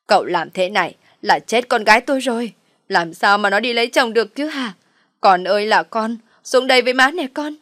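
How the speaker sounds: scheming mother loudly lamenting her daughter's ruin. Acted. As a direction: wail it out for everyone to hear. Mother wails over daughter's shame.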